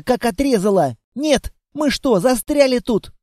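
put-on a small girl worried they are stuck; worried little girl.

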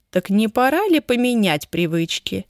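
plain reading voice

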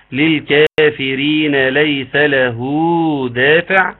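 slow chanted Quran recitation; tajweed recitation. Shown as a demonstration. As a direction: recite the verse slowly, drawing out the vowels. Recites the verse. (تلاوة مجودة بطيئة)

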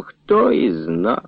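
nodding off mid-answer; drowsy mumble. A narrator's reading. Dozing Larivon answers Nechypir, drowsy and slow. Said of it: "він уже клював носом".

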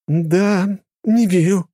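high, loud female voice; disbelieving protest. A narrator's reading. Red-haired girl backing her sister, disbelieving. Second girl joins the denial.

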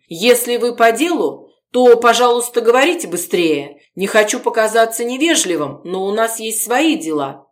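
impatient. Acted. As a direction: get rid of the guest fast. Gorodetsky impatient with visitor.

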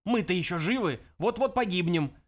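agitated outcry; urgent shouting. Acted. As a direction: plead loudly for their lives. Zaphod continues shouted protest.

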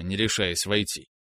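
usual speaking voice

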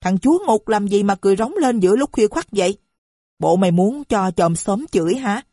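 wife shrieking at her husband from downstairs; shrieking insults. Acted. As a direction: fling insults up the stairs. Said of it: "ré lên xỉa xói".

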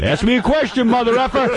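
hammed-up high-pitched mock of a rock singer. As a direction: parody the rocker in a high whiny squeal. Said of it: "mocking a rocker's line".

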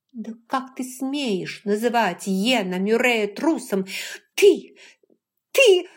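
put-on an outraged young woman sputters. A narrator's reading. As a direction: splutter with fury.

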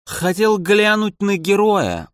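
put-on slow drunken smirk. A narrator's reading. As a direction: sneer it out lazily. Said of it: "ухмыльнулся князь". (с пьяной ухмылкой)

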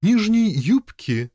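high, slow blurted words; blurting out. Acted. The lady blurts the answer for the king, high and slow. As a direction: blurt it out bluntly. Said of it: "бухнула дочь королевы Фландрии".

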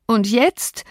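plaintive question, pitch climbing; mild narrated whine; dying whimper. A narrator's reading. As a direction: let it rise into a self-pitying whimper. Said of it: "Seine Stimme erstarb in einem Wimmern".

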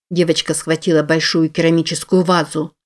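ordinary delivery

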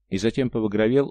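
ordinary delivery

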